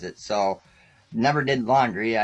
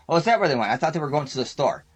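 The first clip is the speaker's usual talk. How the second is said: mock-innocent, higher and louder; feigned surprise; 5 semitones higher, 3 dB louder, much faster than usual. Pretending to the police not to know where his buddy went, faking surprise. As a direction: play dumb as if hearing it for the first time.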